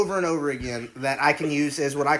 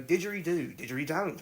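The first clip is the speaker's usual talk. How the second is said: put-on Australian accent; 9 dB quieter than usual. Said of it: "after two hundred times of saying it".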